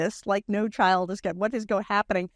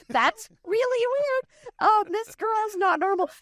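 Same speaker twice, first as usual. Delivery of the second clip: incredulous; 12 semitones higher, slower than usual. Real, not acted.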